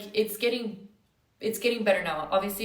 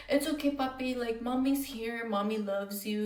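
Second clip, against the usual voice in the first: put-on raised, soothing mommy voice to a little boy; tender mommy comfort; 3 semitones higher than usual. Mom reassuring her crying nonverbal son, tender and soothing. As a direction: hush him gently like a mother at bedside.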